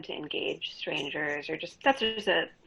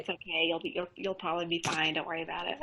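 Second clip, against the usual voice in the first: reassuring; 4 dB quieter, faster than usual. Retold or imitated. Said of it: "I was like".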